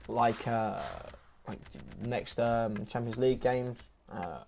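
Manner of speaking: struggling to talk, halting; words keep failing mid-sentence; voice giving out. Real, not acted. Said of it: "I'm struggling to talk at the moment".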